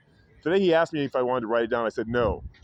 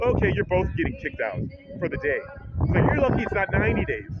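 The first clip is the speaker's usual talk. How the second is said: lightly voiced stern guard; 5 semitones higher than usual. Security guard quoted.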